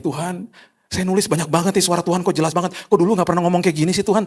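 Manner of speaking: bemused prayer. Retold or imitated. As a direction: ask God half-amused. Praying quote, higher pitch.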